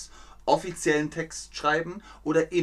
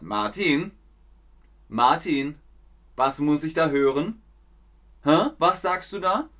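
scolding emperor; 2 semitones higher than usual. Retold or imitated. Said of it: "weil der Kaiser gesagt hat".

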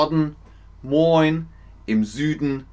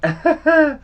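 laugh; 4 dB louder than usual. Shown as a demonstration. Mock example while explaining silly.

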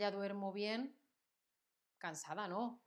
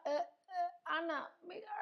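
friend calling out; 9 semitones higher than usual. Acted. Acted friend calling to Ana.

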